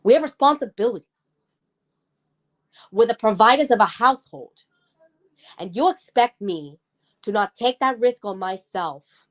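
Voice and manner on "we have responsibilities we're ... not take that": heated. Real, not acted. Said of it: "I get heated".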